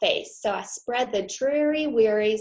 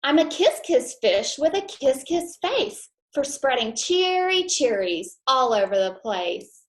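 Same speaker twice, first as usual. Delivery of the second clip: louder, happy kiss kiss refrain; joyful fish; 4 semitones higher, 5 dB louder than usual. Acted. Fish happily tells his friends he's a kiss fish, brighter. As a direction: burst out cheerful and proud. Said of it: "said Mister Fish".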